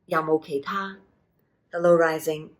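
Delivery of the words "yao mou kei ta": Yao mou kei ta said with Cantonese tones; Cantonese phrase. Shown as a demonstration. Teacher showing how to ask for other teas, careful Cantonese. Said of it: "the simplest way to say it is".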